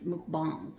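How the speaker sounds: mukbang slow and soft, "mook-bahng"; mukbang with an open "bahng"; Asian pronunciation. Shown as a demonstration. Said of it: "or if you're Asian".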